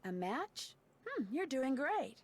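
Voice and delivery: game voice. Acted. Game voice line, repeated.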